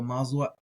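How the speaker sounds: Mazot with a short clipped ending. Shown as a demonstration. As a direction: say Mazot, aleph silent. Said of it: "Mazot is how most people are gonna say it".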